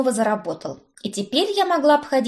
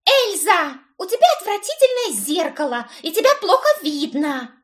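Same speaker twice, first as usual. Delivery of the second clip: declared; 9 semitones higher than usual. A narrator's reading. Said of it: "заявила Брит".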